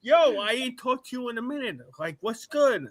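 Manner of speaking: high, loud and laughing through it; excited greeting. Retold or imitated. Rodney on the phone, delighted to hear Scooby again, laughing. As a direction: imitate an old friend thrilled to hear from you. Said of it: "He's like".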